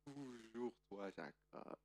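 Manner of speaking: slow, weary reproach. Acted. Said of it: "on lui dit".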